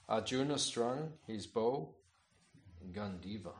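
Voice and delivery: measured, declaiming read of a sacred text; scripture reading. Acted. Teacher reading scripture aloud to his class, declaiming. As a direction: read the holy story out to the listeners.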